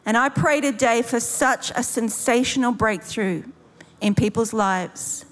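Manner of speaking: measured prayer with long pauses; leading prayer. Real, not acted. Preacher praying to the Father for breakthrough, measured and unhurried. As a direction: pray aloud over them, unhurried.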